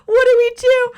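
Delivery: high, loud panicked cry; freaking out. Retold or imitated. Braden asking what to do, panicked high cry. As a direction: blurt it in a panic. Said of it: "Braden's freaking out".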